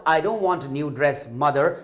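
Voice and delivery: put-on slow, reluctant little girl's no; sad refusal. Child refusing her mother, slow and reluctant. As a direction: drag out the refusal. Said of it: "said Neena".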